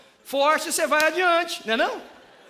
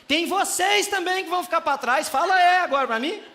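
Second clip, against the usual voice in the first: calling out; 7 semitones higher, 5 dB louder than usual. Real, not acted. Preacher calls out congregation.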